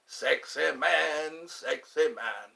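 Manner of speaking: slow, drawn-out Fat Bastard imitation. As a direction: drag it out slowly like Fat Bastard. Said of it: "Isn't that what Fat Bastard said?".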